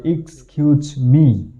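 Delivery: "এক্সকিউজ মি" in separate beats, iks, kyooch, mi; careful model pronunciation. Shown as a demonstration. Teacher giving learners the correct pronunciation, careful demonstration. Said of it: "সঠিক উচ্চারণ হচ্ছে".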